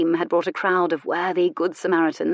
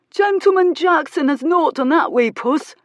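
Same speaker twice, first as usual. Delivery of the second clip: excited onlooker; 9 semitones higher, 6 dB louder than usual. Acted. Crowd cheering the fight.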